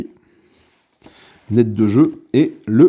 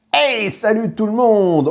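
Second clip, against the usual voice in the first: a big, high, drawn-out hey that strains the throat; hard-pushed hey; 9 semitones higher, slower than usual. Real, not acted. Youtuber greeting viewers at the start, hey pushed hard. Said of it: "le hey était un petit peu appuyé".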